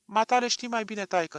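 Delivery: put-on old woman pleading in a false whine; fake whimpering. A narrator's reading. Grandmother fawning on the doctor, fake whimpering. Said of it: "se porni pe scâncit baba cu un glas prefăcut".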